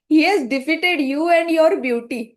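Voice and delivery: loud, drawn-out proclamation; emphatic declaration. Acted. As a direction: announce it slowly and forcefully. Acts out Shiva's teasing declaration.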